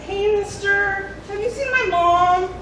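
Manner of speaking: put-on lost child voice. Lost child asking stranger.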